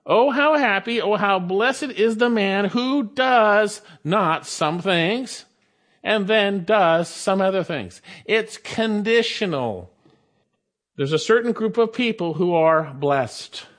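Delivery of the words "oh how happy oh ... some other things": emphatic reading. Shown as a demonstration. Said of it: "is actually emphatic".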